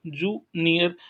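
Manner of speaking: जूनियर said as जू, pause, नियर; two-part teaching version of जूनियर; split into syllables. Shown as a demonstration. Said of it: "इसमें दो ही syllable है".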